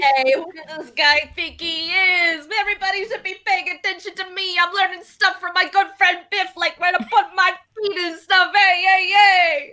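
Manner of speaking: lightly voiced indignant little braggart; attention-seeking little automaton. Automaton wanting everybody's attention, put-out character voice. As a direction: demand attention, calling out at the end.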